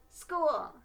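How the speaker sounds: high, loud happy hooray; excited cheer. Acted. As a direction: burst out with joy. Child cheering in story.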